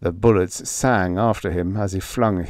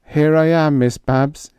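calling back; 8 semitones higher, 6 dB louder than usual. A narrator's reading. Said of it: "he called back".

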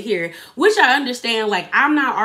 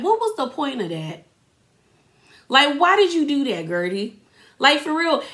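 higher pitch, incredulous, calling her out; exasperated disbelief; 4 semitones higher than usual. Real, not acted. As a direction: ask in disbelief why she did that. Speaker's own outrage at Guerdy.

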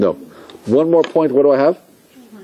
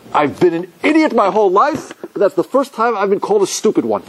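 higher, proudly puffed-up retort; mock indignant dignity; 7 semitones higher than usual. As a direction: play wounded pride for the punchline. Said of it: "He pulls himself up to his full height".

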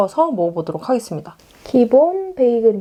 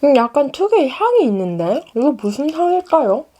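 talking around a hot bite; chewing hot bread while speaking; mouth full of hot food; 5 semitones higher than usual. Real, not acted. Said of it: "아, 뜨거".

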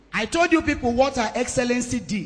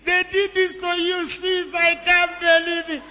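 shocked friend; 5 semitones higher than usual. Retold or imitated. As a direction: voice her friend's outraged shock, pitched up. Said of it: "She said".

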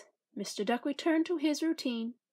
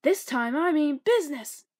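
stern warning; 2 semitones higher, 6 dB louder than usual. Acted. Duck ordering animals out.

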